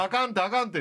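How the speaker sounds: quick natural Kansai あかんて, repeated; normal Kansai dialect. Shown as a demonstration. Host demonstrates genuine Kansai usage to co-star, natural Kansai. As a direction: toss it off like a Kansai native. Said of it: "関西人は".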